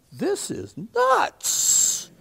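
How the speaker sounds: high, drawn-out exasperated cry; frantic dad. Acted. Dad in the chaotic ER, high and frantic. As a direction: stretch it out high, overwhelmed. Dad panicking in the emergency room.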